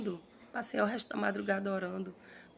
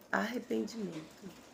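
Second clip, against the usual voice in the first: "Arrependimento" repeated much softer, with a different timbre; a hushed repeat of "Arrependimento"; soft echo; 6 dB quieter than usual. Shown as a demonstration. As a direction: let "Arrependimento" fall away quietly. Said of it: "soft echo of the word".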